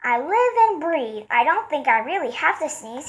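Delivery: high, loud, delighted; marvel, laughing with relief; amazed laughing. A narrator's reading. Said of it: "laughed the elephant".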